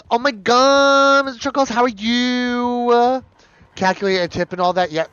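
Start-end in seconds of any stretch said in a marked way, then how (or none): 0.1-3.2 high, loud, gushing hello to a pet; excited pet greeting. Real, not acted. Greeting her pet Mister Chuckles with a high, loud squeal. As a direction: squeal with delight at the little one.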